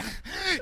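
high mock whimper; short high-pitched crying noise; imitated crying. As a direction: imitate a kid starting to cry. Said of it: "that crying thing that he does".

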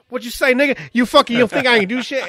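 high, loud playful bullying; mock aggressive. Dad play-bullying his daughter, mock aggressive. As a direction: bear down hard like a hammed-up thug. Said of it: "I really get really aggressive".

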